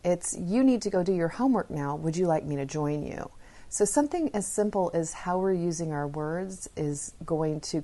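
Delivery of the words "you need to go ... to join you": even, straightforward instruction easing into an offer; matter-of-fact parent. Shown as a demonstration. Parent to child about their own homework, matter-of-fact. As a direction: model a parent calmly handing over responsibility. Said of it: "Well, that's incorrect".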